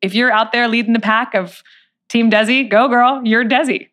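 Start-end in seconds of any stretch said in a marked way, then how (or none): 2.1-3.9 cheering. Retold or imitated. Cheering herself on.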